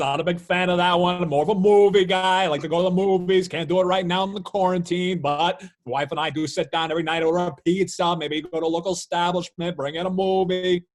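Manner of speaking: Kuiper impression. Broadcaster telling hosts about movie night, hearty and loud. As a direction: play a chatty announcer at full volume. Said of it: "that's my Kuiper".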